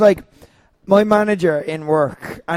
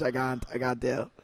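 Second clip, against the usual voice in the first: 1 cringing murmur; 7 semitones lower, 15 dB quieter than usual. Real, not acted. Cringing at embarrassing memory.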